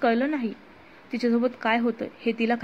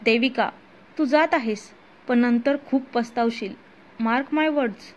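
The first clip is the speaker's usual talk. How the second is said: angry call. Acted. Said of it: "दक्ष रागात मागून ओरडला".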